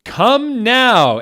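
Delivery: hammed-up furious teacher's yell. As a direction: bellow the order. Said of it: "Preacher McGonagall yielded".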